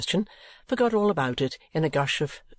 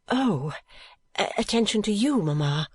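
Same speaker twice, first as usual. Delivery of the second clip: quick rejoinder; 6 semitones higher than usual. A narrator's reading. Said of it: "rejoined Kate quickly".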